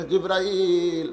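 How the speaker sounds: slow, drawn-out sermon cadence; slow devotional storytelling; melodic preaching. Acted. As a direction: draw out the phrase endings like a chant.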